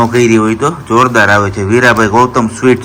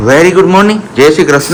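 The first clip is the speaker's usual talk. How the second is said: cheery greeting; 5 semitones higher, 5 dB louder than usual. Real, not acted. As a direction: greet everyone brightly, stretched out. Greets viewers on baby's behalf. (ઉત્સાહભર્યું ધીમું અભિવાદન)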